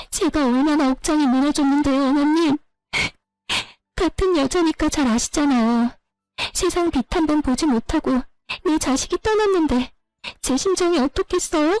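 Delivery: hard wailing sobs. Pleading with the mother-in-law over a lost child: sobbing hard. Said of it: "마지막엔 거의 오열하는데".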